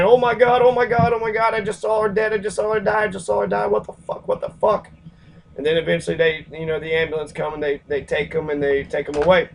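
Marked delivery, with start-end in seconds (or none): 0.0-4.9 higher, distraught mock sobbing tone; imitated crying witness. A witness who just saw her die, imitated distraught voice. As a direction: play the bystander in shock, near tears. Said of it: "He just crying".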